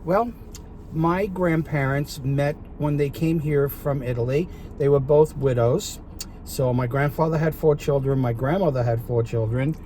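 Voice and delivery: put-on a touch of a Brooklyn accent. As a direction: tell it like a born Brooklyn Italian. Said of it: "with a little bit of a Brooklyn accent".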